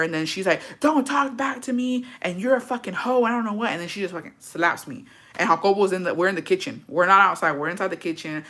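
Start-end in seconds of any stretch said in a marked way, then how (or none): 0.8-3.7 higher-pitched imitation of a scolding mother; mock pissed-off mom. Daughter imitates mom telling her off, angrily. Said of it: "my mom was just fucking pissed".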